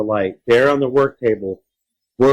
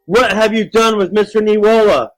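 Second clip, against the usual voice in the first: high, loud, urgent question; alarmed demand; 11 semitones higher, 5 dB louder than usual. Acted. Child confronts creature about missing neighbor, alarmed demand.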